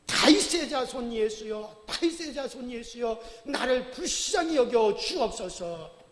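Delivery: slow, loud pleading cry, no giving up. Acted. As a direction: call out stubbornly over the crowd. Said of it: "더 크게 소리를 지릅니다".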